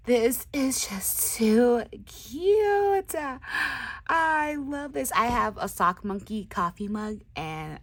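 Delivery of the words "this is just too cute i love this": slow, breathy awed whisper. Real, not acted. Crafter admiring a tag, slow whisper. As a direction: whisper it in awe.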